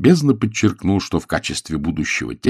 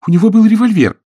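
put-on much higher, louder girl's exclamation; excited girl's cry; 14 semitones higher, 8 dB louder than usual. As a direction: blurt it out, thrilled and scared. Daughter voiced in story.

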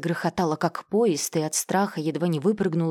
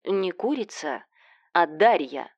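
ordinary delivery

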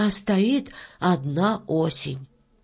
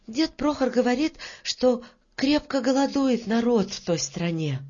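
lightly voiced girl, a little higher; a hint of an eager child; Varya, hurried; 4 semitones higher than usual. Varya passes on Grandpa's news, eager. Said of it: "заспешила Варя".

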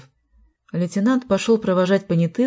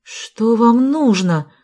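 loud, high, drawn-out demand; indignant cry; 5 semitones higher, 5 dB louder, much slower than usual. A narrator's reading. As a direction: cry it out slowly at the intruders. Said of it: "закричала Марина". (протяжный возмущённый крик)

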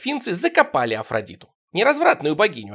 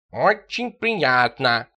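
squawked; 3 semitones lower, much slower than usual. Acted. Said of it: "вякнул за дверью Тихон".

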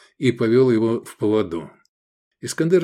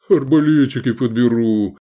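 louder, toothy grin in the voice; grinning; 5 dB louder than usual. Acted. Gefestai grinning over the fallen crossbowmen. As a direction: say it with a wolfish grin. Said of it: "осклабился Гефестай".

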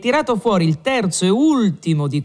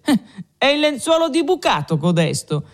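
raised pitch, smiling surprise; amused wonder; 8 semitones higher than usual. A narrator's reading. Renzo marvelling at the host's paper, smiling wonder. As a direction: marvel at it with a light chuckle. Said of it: "sorridendo poi con maraviglia soggiunse".

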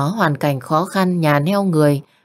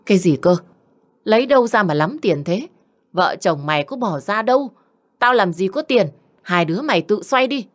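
shrill, higher-pitched indignant outburst; mother-in-law protesting the money, higher and sharp; outraged mother-in-law; 3 semitones higher than usual. Acted. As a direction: jump up outraged at the cost. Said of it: "bà ta nhảy đòng lên như đỉa phải vôi".

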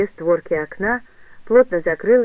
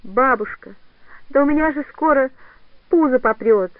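tearful outburst; 5 semitones higher than usual. Acted. Katya confesses pregnancy to old woman, crying out. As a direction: blurt it out through tears.

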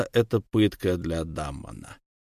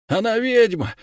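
shouted accusation; 11 semitones higher, 4 dB louder than usual. Acted.

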